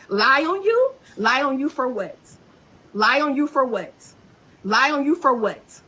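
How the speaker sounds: shouted, repeated "Lie on you for what?"; furious retort. Real, not acted. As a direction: throw it back in their face each time. Angry repeated retort at accuser.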